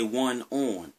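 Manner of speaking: "on" in the local Maryland sound; drawn Maryland "on". Shown as a demonstration. Vlogger repeating his Maryland "on", local accent. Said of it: "you just heard me say".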